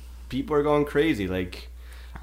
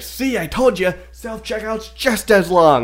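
smug husband; 9 semitones higher, 3 dB louder, slower than usual. Retold or imitated. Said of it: "he's like".

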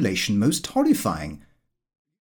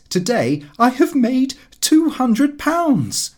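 boastful toast; 6 semitones higher than usual. Acted. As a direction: crow about the windfall to the table. Lupin's boastful speech.

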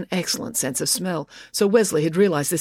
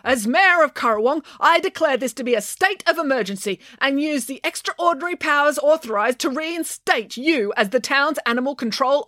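high, officious declaration; mayoral proclamation; 8 semitones higher than usual. A narrator's reading. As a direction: proclaim it as an official order, pitched up. Mayor formally declares an emergency.

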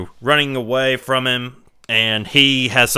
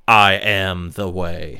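Pinhead proclamation; 4 semitones lower, slower than usual. Retold or imitated. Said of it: "and says".

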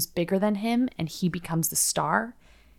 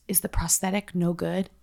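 breathless, voiceless whisper; raspy whisper. Retold or imitated. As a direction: whisper it like a damaged throat. Voicing Yulia, who has no voice.

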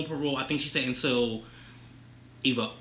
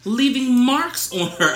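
news reporter voice. Pretend. Co-host reading gossip story to partner, news reporter voice. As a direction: read it like a tabloid news anchor. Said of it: "that's my news reporter voice".

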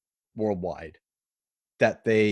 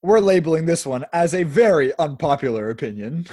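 mock serious; 3 semitones higher, 5 dB louder than usual. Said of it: "so in all seriousness".

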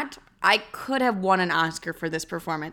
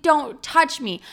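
mock hurt; 7 semitones higher, 3 dB louder, slower than usual. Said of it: "I'm like".

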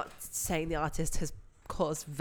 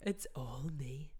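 silky voice; 5 semitones lower, 9 dB quieter than usual. Acted. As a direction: purr it out, smug and silky. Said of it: "my silky voice".

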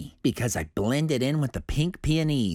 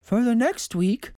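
stern doctor; 11 semitones higher, 3 dB louder than usual. A narrator's reading. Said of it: "Doctor Wink said".

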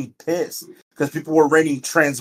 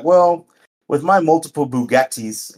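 mock rich guy; 3 semitones higher than usual. Shown as a demonstration. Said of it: "you gotta say it like that".

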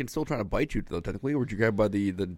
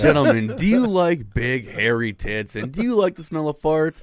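louder, pitched-up infomercial pitch; mock announcer; 2 semitones higher, 5 dB louder than usual. Pitching fart sales to the audience, mock announcer voice. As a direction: sell it like a cheesy late-night host.

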